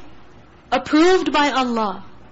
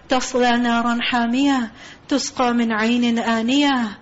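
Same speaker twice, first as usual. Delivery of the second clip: Quran recitation; 2 semitones lower, much faster than usual. Acted. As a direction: chant it as measured tilawah. Quran recitation within talk.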